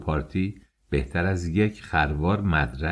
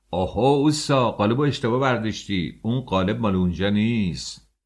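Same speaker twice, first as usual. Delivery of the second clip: sudden shout; 4 semitones higher than usual. A narrator's reading. Engineer correcting a builder's mistake, shouting. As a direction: call out a sharp correction to a worker. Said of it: "مهندس یه دفعه داد کشید".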